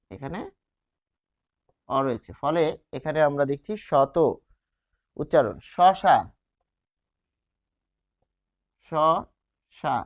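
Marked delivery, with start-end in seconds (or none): 5.7-10.0 শশা stretched very slowly, with a dental s on both sounds; drawn-out demo word. Shown as a demonstration. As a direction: hold শশা long to show the s sound. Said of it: "দন্ত স এর উচ্চারণ".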